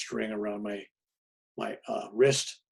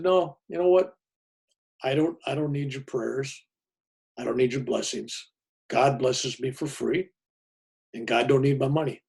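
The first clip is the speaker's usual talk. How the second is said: firm refusal; 2 semitones higher than usual. Retold or imitated. Narrator refusing the priest.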